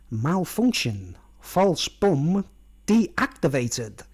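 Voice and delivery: slow, flat machine announcement; robot voice. Retold or imitated. Screen readout telling Boss Nana the device failed, slow robotic. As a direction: read it like a broken computer. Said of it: "it says on the screen".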